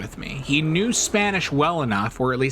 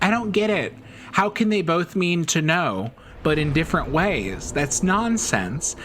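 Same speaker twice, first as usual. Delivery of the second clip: imitating a baffled classmate, pitched up; mystified; 5 semitones higher than usual. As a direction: protest in mock bewilderment, higher voice. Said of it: "he was just mystified".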